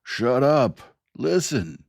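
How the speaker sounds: shouting the room down; bellowing. Acted. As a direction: roar it over the crowd. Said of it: "pounding on the desk and bellowing".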